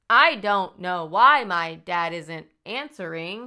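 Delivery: slow, overdone innocent worry; hammed-up fake worry. Killer overacts worry about his missing dad. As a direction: ham up the fake concern slowly. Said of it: "my acting here".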